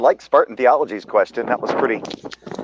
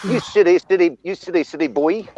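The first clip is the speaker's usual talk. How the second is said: put-on New Zealand accent. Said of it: "Your accent's all over the place".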